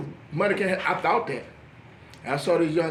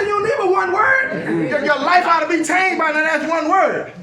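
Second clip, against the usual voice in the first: preachy rebuke; 6 semitones higher, 5 dB louder than usual. Retold or imitated. Mock preacher to one-word seeker, loud high rebuke. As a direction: drive it home like a preacher.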